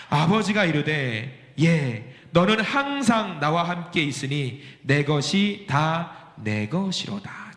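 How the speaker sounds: slow, measured scripture read. Acted. Preacher reading the verse to the congregation, slow and measured. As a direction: read the verse slowly and deliberately.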